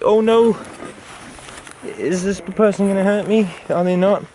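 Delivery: a frightened bug crying out in alarm; scared little creature. Pretend. Voicing a frightened insect.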